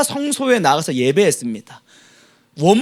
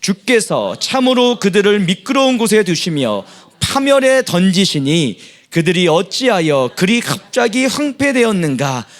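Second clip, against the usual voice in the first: steady, measured reading aloud; scripture reading; 2 semitones higher than usual. Acted. Congregation reading scripture aloud together, measured. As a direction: read the psalm together, evenly.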